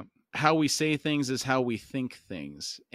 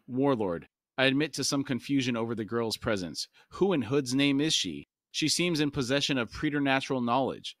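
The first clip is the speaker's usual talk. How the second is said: steady audiobook reading voice; calm novel narration; story narration. A narrator's reading. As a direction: read the chapter aloud, even and measured. Reads novel aloud to podcast.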